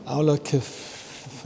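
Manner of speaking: Auloceph- traag en aarzelend gezegd, breekt af; struggling with the name. Real, not acted. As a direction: stumble over Auloceph- slowly and give up. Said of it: "oh, I can't say this".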